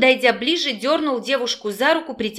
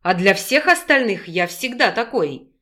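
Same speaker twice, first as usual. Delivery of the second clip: put-on persuasive young man, lightly lowered; lightly voiced young man. Male character voice.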